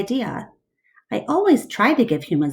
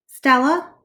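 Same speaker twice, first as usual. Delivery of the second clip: calling out; 7 semitones higher, 5 dB louder than usual. Acted. Ivan calling out to Stella.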